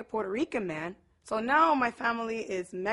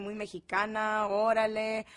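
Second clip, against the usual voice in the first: lightly imitated Mexico City Spanish lilt; chilanguita accent. Showing her sister's Spanish, playful chilanguita accent. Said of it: "My sister has her little chilanguita accent".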